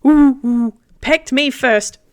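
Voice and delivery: hooting bird, slowing on the last words; big bird hooting back, slow. Acted. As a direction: say it like a huffy bird, drawn out. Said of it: "And it just goes".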